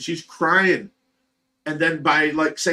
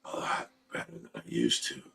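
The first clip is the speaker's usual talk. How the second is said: faint, breathless whispered reply; weak whisper; 15 dB quieter than usual. Retold or imitated. Husband imitating sick wife's faint whispered answer. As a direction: barely breathe it out like a frail patient. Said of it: "And she's like".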